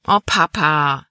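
a mild complaining moan at her father; whining. A narrator's reading. Libby whining to her father, a mild slow whine. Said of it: "jammerte Libby".

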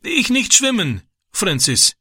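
high, desperate begging; pleading in broken German. A narrator's reading. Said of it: "flehte er und breitete bittend".

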